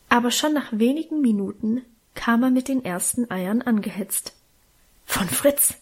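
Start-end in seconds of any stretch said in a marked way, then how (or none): 5.1-5.7 slightly higher, restrained narrated call; mild excited call. A narrator's reading. Boy rushing up with captured eggs, mildly excited call. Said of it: "rief er mit hochrotem Kopf".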